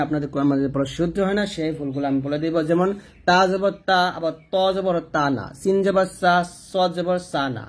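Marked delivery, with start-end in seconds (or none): 3.3-5.2 "ত" given the same thin aa vowel as "তা"; wrong pronunciation. Shown as a demonstration. Teacher showing students a common mistake, wrong pronunciation. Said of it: "প্রত্যেকটা উচ্চারণ ভুল উচ্চারণ করছি". 5.6-7.4 "স" ending in thin "সা", just like seen; wrong pronunciation. Shown as a demonstration. Teacher showing how learners confuse seen and sad, wrong pronunciation. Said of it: "প্রত্যেকটা উচ্চারণ ভুল উচ্চারণ করছি".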